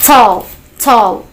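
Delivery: tall, tall with a popped initial T; exploded T. Shown as a demonstration. Teacher drilling the class, tall with a popped T. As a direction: burst the T of tall, teeth together.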